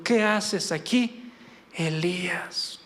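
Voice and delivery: slow, soft voice fading to a whisper; voz apacible de Dios. Acted. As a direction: speak it slowly and gently, the name nearly whispered. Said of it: "un silbo apacible y delicado". (voz suave y pausada que termina en susurro)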